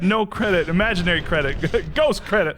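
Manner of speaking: mock car ad. S1 riffing a car dealership commercial. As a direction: shout it like a used car ad.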